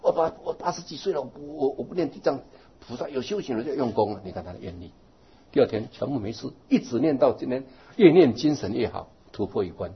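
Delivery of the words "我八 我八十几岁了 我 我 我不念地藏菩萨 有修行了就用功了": put-on determined old lady. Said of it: "他说".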